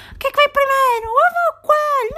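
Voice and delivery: high, loud squeaky cartoon voice; shrill mock ad girl squeaking her question; ad character voice. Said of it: "como aquele anúncio do Mini Preço". (voz de anúncio, aguda e forte)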